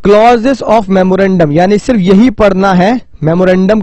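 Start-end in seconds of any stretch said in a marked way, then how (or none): 0.1-1.5 "clauses of memorandum" drawn out very slowly, each word separate; slow emphasis on key term. Shown as a demonstration. Teacher spells out the key term slowly for students. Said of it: "क्या बोलते हैं?".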